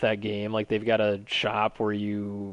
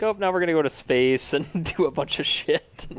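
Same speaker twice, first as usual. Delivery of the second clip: higher mocking voice breaking into laughter; amused mock quote; 6 semitones higher than usual. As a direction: act out a silly pitch, laughing midway.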